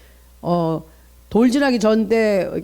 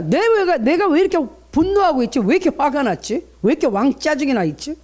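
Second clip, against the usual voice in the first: higher-pitched, exasperated asking oneself; agitated self-questioning; 6 semitones higher than usual. Acted. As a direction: question yourself in mounting irritation, pitched up. Acting out questioning one's own anger.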